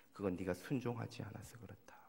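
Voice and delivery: soft whisper; inner voice of God. Retold or imitated. The Lord speaking in the pastor's heart, hushed whisper. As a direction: breathe it like a still small voice. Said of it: "주님이 제 마음에 이런 말씀을 들려주셨어요".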